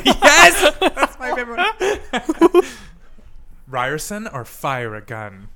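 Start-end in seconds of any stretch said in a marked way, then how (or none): 0.0-3.7 high delighted laughing shout; laughing loudly. Real, not acted. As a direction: burst out laughing with joy. Delighted at swear word answer.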